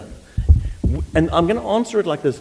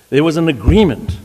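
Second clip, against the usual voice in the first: agreement leaned on and louder; stress on agreement; 4 dB louder than usual. Real, not acted. Counsel pressing the court on the word agreement, emphatic. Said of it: "we emphasize the word agreement".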